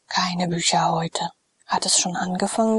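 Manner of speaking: drowsy lord, barely awake, breathing the words; sleepy weary whisper. Acted. Sallust, just woken, murmuring to his freedman, drowsy and weary. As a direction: murmur it half asleep, unwilling to stir.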